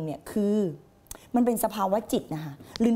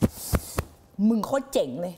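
slow gruff self-praise; 3 semitones lower, much slower than usual. Pretend. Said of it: "มันคงพูดแบบนี้กับตัวเอง".

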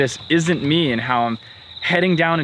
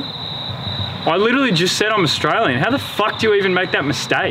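raised-pitch, affronted disbelief; indignant; 4 semitones higher than usual. Acted. Australian corrects a stranger who took him for English, indignant. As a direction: bristle at the mistake, pitch up.

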